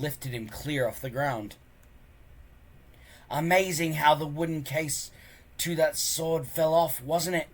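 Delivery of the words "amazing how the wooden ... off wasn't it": bully's threat. Acted. Snotlout menacing Hiccup.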